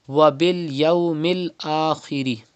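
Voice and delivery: Wa bil yawmil said slowly, waw not stretched; measured tajweed reading; slow recitation. Shown as a demonstration. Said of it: "without stretching".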